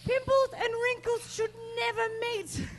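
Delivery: slow, punched punchline; punchline delivery. Acted. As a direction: land the punchline slowly. Punchline of stand-up set.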